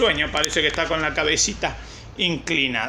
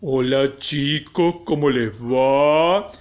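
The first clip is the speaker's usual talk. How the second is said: slow, lower teacher greeting with stretched endings; mock teacher; 4 semitones lower, much slower than usual. Impostor greeting children in the teacher's voice, drawn-out mimicry. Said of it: "Estoy escuchando mi voz".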